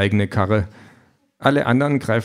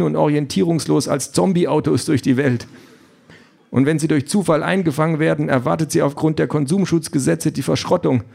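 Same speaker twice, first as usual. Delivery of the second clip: higher, smoothly courteous machine voice; the car apologetically throws him out, all politeness; overly courteous AI car, regretful; polite car voice; 5 semitones higher than usual. Acted.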